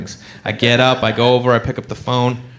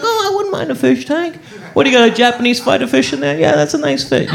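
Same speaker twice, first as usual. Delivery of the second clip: casual admirer; 8 semitones higher than usual. Retold or imitated. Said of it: "you're like".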